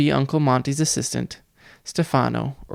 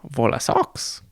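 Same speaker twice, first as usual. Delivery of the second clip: put-on baby shriek; slower than usual. A narrator's reading. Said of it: "Sunny shrieked".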